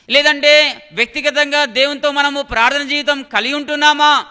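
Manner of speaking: emphatic, projected sermon questions; forceful preaching. Real, not acted. Preacher questioning believers about family prayer, forceful preaching. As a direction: press each question home to the congregation.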